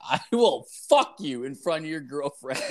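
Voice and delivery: threat retold through a laugh; breaking into laughter at the end; laughing mock threat. Man retelling his threat to the kid at the car, laughing.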